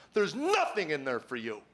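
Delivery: insistent, falling mock outcry; mock scream. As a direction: imitate a screaming voice without real volume. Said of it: "a voice screams at me".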